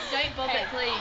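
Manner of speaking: laughing plea. Real, not acted. Pleading while laughing hard.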